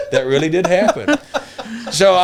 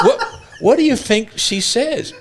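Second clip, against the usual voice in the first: laughing retelling; 11 semitones higher, slower than usual. Retold or imitated. Teller retells his question, laughing.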